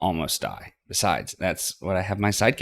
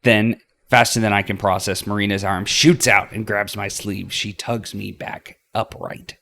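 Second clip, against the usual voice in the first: usual speaking voice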